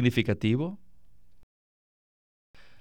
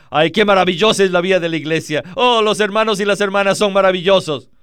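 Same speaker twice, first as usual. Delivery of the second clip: fast, slightly louder mock gush; naive gushing; 3 dB louder, much faster than usual. Newcomer gushing about church life, fast mock delight. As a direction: rattle it off like a starry-eyed newcomer. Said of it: "usted quizás diga".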